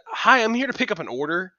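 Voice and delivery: high, loud imitation of a pushy customer; snippy customer. Imitating a lady picking up her order, snippy and too loud. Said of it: "lady walked in with an attitude problem".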